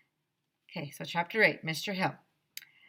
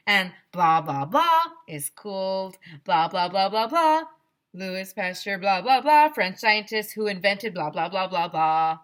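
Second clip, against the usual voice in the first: mocking blah blah; 7 dB louder than usual. Bored kid mocking the lecture.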